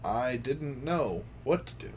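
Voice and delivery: deadpan lyric reading; dry lyric recital. Acted. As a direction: read the song words dryly. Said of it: "read to you".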